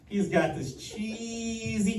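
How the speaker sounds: ordinary delivery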